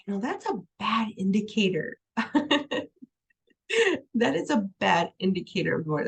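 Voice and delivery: talking through a chuckle; amused, breaking into a laugh; real laughing. Real, not acted. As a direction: try to make the point while laughing. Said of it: "I'm sorry that I'm laughing".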